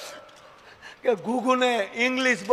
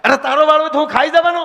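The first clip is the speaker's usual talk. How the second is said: fast, higher, louder snap; husband shouting at wife; angry retort; 6 semitones higher, 5 dB louder, faster than usual. Retold or imitated. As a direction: fire back angrily. Husband yelling, quick.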